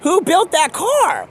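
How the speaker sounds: high, loud and stretched-out question; shouted demand. Acted. Pressing Mike for an answer, shouted question.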